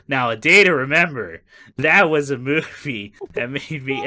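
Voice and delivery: hammed-up weepy man quoting a war movie; a touch of choking up over a movie; choked-up Tom Hanks. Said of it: "until Tom Hanks goes".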